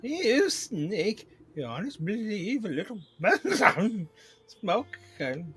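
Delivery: high, loud royal outrage; furious queen bee. Acted. Queen bee catches the smoke can, furious. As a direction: splutter in loud, high indignation.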